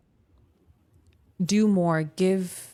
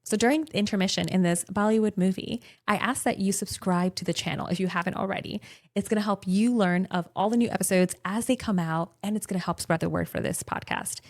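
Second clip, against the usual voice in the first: brisk host plug read; podcast ad read. Acted. Mid-show subscribe plug.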